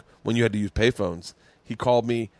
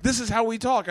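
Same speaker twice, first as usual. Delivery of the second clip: retold insistence; 11 semitones higher than usual. Friends explaining in acted quarrel.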